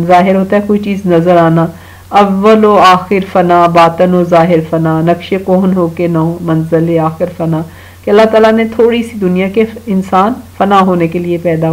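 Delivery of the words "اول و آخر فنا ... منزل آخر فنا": slow, measured recital of Urdu verse, each line set apart; poem recitation. Acted. Teacher reciting a verse to children, slow and measured. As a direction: recite the couplet slowly to the children.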